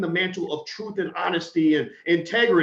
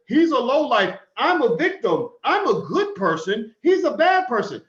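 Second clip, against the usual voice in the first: higher and louder, whining innocence; mock lying victim; 6 semitones higher, 4 dB louder than usual. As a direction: play the fake victim pleading higher. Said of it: "comes out and says".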